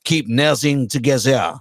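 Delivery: slow deep mock French accent; deepened French accent demo. Shown as a demonstration. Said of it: "deepen your voice".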